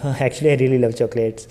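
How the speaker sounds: "Actually, I really love chocolates" starting up, then coming down; natural pitch movement on "Actually, I really love chocolates"; up-and-down intonation. Shown as a demonstration. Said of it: "ऊपर गया आपका voice pitch".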